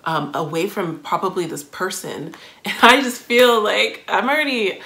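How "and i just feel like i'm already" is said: higher, louder and rushing as feelings well up; getting emotional. Real, not acted. Listener moved by a new song, emotional and rushed. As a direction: voice catching as she gets choked up. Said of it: "I'm getting emotional today".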